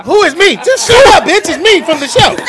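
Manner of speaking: high hammed-up villain voice; mock kidnapper voice. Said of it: "Poor performance".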